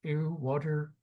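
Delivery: Philly accent with an "ooh" sound; attempted Philly accent. Shown as a demonstration. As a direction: try out a Philly accent, half-sure. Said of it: "like, the ooh sound in there".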